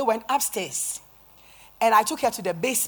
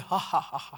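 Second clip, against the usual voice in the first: low imitated demon laugh; mocking laugh; 4 semitones lower than usual. Possessed woman taunting the preacher, mocking laugh. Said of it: "She's mocking you".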